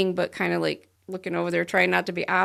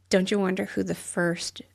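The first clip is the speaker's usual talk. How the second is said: laughing whisper; slower than usual. Real, not acted. Joking aside with laugh.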